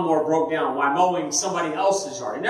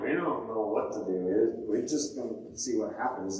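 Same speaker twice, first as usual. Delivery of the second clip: mock clueless doctor; 8 semitones lower, 8 dB quieter than usual. Imitating vague doctors.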